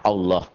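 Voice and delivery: "Allah" low, said "Olloh"; low, rounded "Allah"; thick Allah. Shown as a demonstration.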